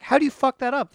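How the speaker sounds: high-pitched retold disbelief; incredulous. Recalling the voice actor's slip, incredulous. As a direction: demand it in exasperated high pitch. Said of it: "I was like".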